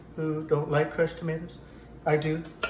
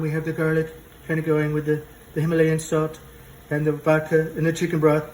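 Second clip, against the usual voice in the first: loud list; 6 dB louder than usual. Acted. Louder listing to camera.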